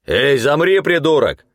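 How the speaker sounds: high, loud angry command; angry shout. A narrator's reading. Guard at the wall shouting angrily at the runner. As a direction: bark at the intruder to freeze. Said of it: "гневно крикнул рослый мужик".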